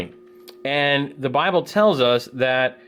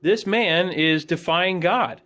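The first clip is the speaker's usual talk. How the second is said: fired up; 5 semitones higher than usual. Retold or imitated. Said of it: "David's pretty upset. He's fired up for the Lord".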